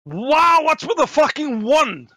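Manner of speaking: very high, loud outburst; outraged exclamation. Real, not acted. Player appalled at rolling a one, loud outraged yelp. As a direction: yell it in high-pitched disbelief.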